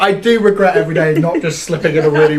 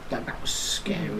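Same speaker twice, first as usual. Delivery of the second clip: whispered; 4 semitones lower, 16 dB quieter, slower than usual. Real, not acted. Recalling childhood fear.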